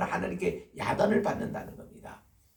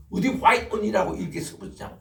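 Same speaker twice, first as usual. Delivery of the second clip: retold scolding; 6 semitones higher, 5 dB louder than usual. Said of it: "막 야단을 치니까요".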